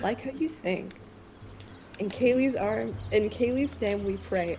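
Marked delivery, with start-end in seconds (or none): 2.0-4.6 mock prayer.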